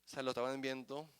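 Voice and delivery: soft, low, intimate sermon voice; hushed preaching. Acted. Preacher quietly assuring the congregation, hushed. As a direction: drop to a hush to draw them in.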